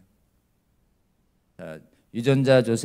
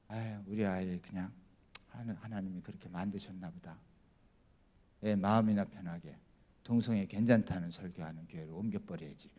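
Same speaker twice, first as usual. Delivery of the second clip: resigned sigh; 6 semitones lower, 14 dB quieter than usual. Retold or imitated. Parent giving up, sighing inwardly.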